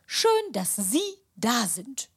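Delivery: Sie stressed and rising. Acted. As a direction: lean hard on Sie. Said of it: "Für dich immer noch Sie".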